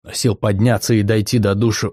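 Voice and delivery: ordinary delivery, nothing marked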